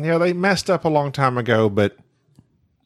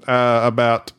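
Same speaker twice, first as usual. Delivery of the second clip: mock announcer voice; much slower than usual. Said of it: "That was good".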